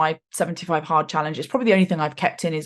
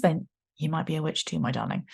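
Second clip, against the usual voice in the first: much lower and softer, a playful witchy croon; spooky witch voice; 3 semitones lower, 9 dB quieter than usual. Pretend. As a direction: lean in and purr it like a storybook witch. Teasing spooky witch aside.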